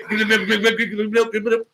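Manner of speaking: rapid auctioneer chant; auctioneer imitation. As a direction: rattle it off like an auctioneer. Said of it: "turned into an auctioneer".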